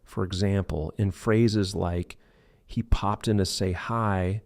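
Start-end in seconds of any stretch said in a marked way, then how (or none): 2.7-4.4 POPPED IN run together, "pop-tin"; linked T. Shown as a demonstration. Teacher showing connected speech, POPPED IN linked smoothly. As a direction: carry the T of POPPED into IN. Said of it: "links smoothly to the following".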